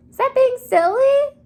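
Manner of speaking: sing-song teacher question; playful question. Acted. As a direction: ask the kids teasingly. Teacher asks class, pitched up.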